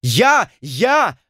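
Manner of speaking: howling. A narrator's reading. Rivals yell to go ashore, loud high yelps. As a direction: shout over each other. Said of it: "в один голос взвыли".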